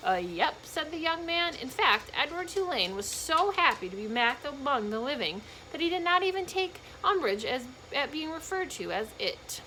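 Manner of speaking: reading a chapter aloud to the class; steady, clear read-aloud voice; teacher reading a novel to students; story narration. A narrator's reading.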